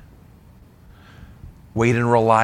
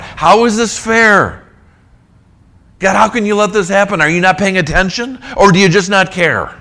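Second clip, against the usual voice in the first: raised, pleading lament; crying out to God; 6 semitones higher, 4 dB louder than usual. Acted. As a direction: cry out like Israel protesting unfairness. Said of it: "They're gonna cry out".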